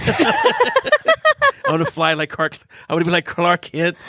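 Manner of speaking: put-on high, slow, excited little boy voice; son's eager voice. Father imitating his son's Superman dream, high and excited. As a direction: stretch it out like a thrilled kid. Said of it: "It's like".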